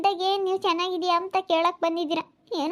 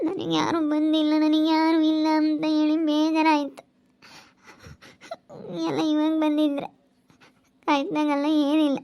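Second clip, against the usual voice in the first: acted crying; 3 semitones lower than usual. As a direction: draw the words out in hurt, tearful self-pity. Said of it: "ಸುಮ್ನಿರು, ಅಳ್ಬೇಡ ಸುಗುಣ".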